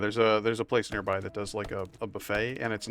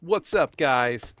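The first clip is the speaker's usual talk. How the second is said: loud high hype greeting; YouTuber greeting; 4 semitones higher, 7 dB louder, much slower than usual. Shown as a demonstration. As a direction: shout it like a channel intro. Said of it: "begin every single video with".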